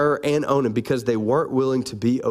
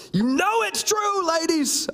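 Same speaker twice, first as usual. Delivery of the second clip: high teasing; 13 semitones higher, slower than usual. Real, not acted. Teasing the congregation.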